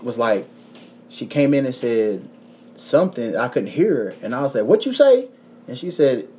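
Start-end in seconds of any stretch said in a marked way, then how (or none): 4.6-5.3 retold puzzled question. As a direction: call back as if you misheard. Asking someone he couldn't hear.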